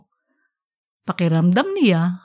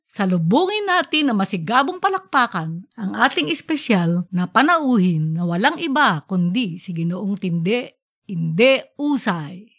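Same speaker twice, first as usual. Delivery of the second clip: formal introduction. Acted. Principal introduces guest.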